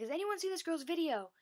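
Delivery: excited announcing. Retold or imitated. Jared repeating to the crowd.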